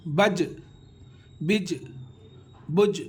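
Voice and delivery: بج with the final ج bounced out; qalqala echo. Shown as a demonstration. Teacher drilling بج to show the bounce. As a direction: release the ج of بج with a little echo. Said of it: "جم کے اوپر جزم آ گیا".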